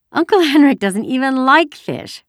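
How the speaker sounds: put-on high, loud, chattering child; giggly little girl. A narrator's reading. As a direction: put on a silly little sister's lightness. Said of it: "tried to giggle the way her sister might".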